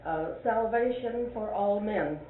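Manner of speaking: slow, even stress on each word; stress demo. Shown as a demonstration. Teacher showing the class a reading of the title. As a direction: read the title with weight. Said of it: "two or three ways of saying that".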